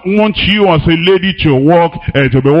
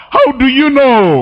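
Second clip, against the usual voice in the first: high, pointed how do you know; rising disbelief at a know-it-all; incredulous challenge; 7 semitones higher than usual. Acted. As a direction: call out the gossiper, voice jumping up. Challenge to church gossip.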